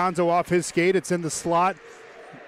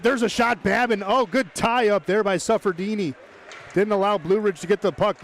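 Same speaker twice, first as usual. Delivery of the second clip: higher-pitched burst of play-by-play excitement; excited shot call; 4 semitones higher than usual. Real, not acted. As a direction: call the chance with a lift in pitch.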